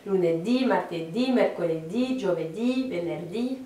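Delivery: Lunedì to venerdì chanted off as a list, each DÌ accented; recited list, final stress. Shown as a demonstration. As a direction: recite Lunedì, martedì, mercoledì, giovedì, venerdì, leaning on each last syllable. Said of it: "quand on fait tous les jours".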